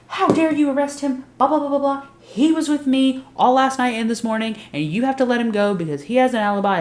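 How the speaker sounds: high, loud outraged protest; hammed-up high indignant friend; indignant Tara. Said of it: "and she goes".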